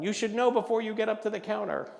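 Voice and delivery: loud, high scolding; exasperated clerk. Acted. Clerk rebuking an undecided customer, exasperated. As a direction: tell off the customer impatiently.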